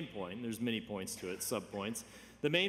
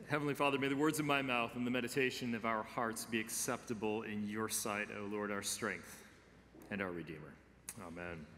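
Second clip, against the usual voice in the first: prayer. Real, not acted. Leads opening prayer.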